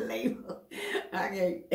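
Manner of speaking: softly laughing out the words; words half swallowed by a laugh; laughing through words. Real, not acted. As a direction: giggle still in the voice. Laughing at her own slip.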